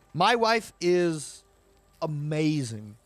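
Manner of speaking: slow heartfelt praise; soppy sincere. Real, not acted. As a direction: say it slowly, meaning every word. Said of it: "getting a little bit soppy".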